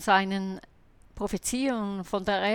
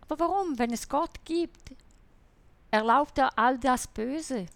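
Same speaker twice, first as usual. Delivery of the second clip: imitating a doubter's challenge, pitched higher; sceptical atheist's question; 4 semitones higher than usual. Retold believer voicing the atheist's objection, a higher, challenging question. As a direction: put the atheist's objection to her, mock challenging. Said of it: "dann die normalen Fragen gestellt".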